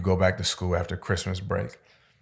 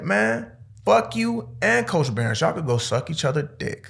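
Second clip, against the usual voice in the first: high, slowed mock yell at both coaches; pitched way up, insolent teen; defiant cursing; 9 semitones higher than usual. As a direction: drag it out, telling them off.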